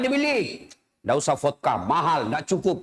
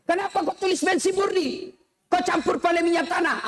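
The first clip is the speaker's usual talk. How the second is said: higher, accusing buyer; indignant buyer; 9 semitones higher than usual. Retold or imitated. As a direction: question the trader sharply. Buyer questions cheating trader. (pembeli heran menegur pedagang)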